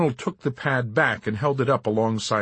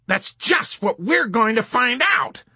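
higher, slow menacing reply; threatening; 5 dB louder, slower than usual. Acted. Colonel menacing the chaplain, slow threat. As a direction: lean in, draw out the threat. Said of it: "threatened the colonel".

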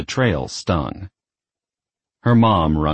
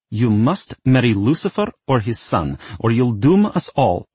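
declaring; 5 semitones higher, 3 dB louder than usual. Acted. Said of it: "Mother declared".

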